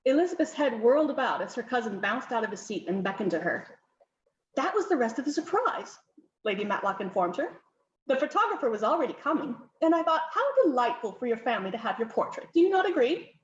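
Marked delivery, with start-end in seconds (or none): 4.5-13.4 brisk hostess hurrying guests in, mildly voiced; fussy countess.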